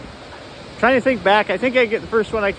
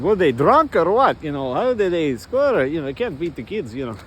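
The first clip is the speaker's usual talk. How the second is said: put-on Russian accent; mock incredulous Russian; 2 semitones lower than usual. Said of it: "this Russian said".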